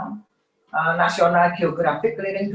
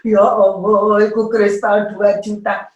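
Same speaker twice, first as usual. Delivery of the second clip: shocked mother; 4 semitones higher, 8 dB louder than usual. Retold or imitated. Mother shocked at broken crystal.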